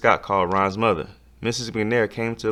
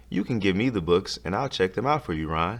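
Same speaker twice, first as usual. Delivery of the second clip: gentle. Acted. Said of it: "she said gently".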